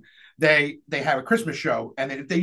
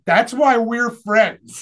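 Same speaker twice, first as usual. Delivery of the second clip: slow; 5 semitones higher, 4 dB louder, much slower than usual. Retold or imitated. Proud punchline about friends.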